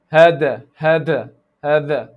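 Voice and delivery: "hada" with a pressed, d-like th, Pakistani style; Pakistani accent. Shown as a demonstration. Teacher imitates Pakistani students' mistake, Pakistani accent. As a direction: push the tongue harder in "hada", Pakistani accent. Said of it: "This is the Pakistani one now".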